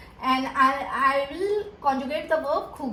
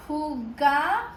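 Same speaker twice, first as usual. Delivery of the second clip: syllable by syllable. Shown as a demonstration. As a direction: spell out "jugaremos" one sound-chunk at a time. Teacher builds word syllable by syllable.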